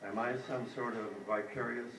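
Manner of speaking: measured poem recital in short phrases; poetry reading. A narrator's reading. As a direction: read a poem aloud, pausing after each line. Reads own poem aloud.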